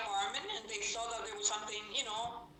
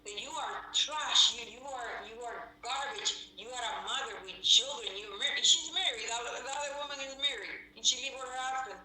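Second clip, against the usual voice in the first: retold insults; 3 semitones higher than usual. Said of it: "they say".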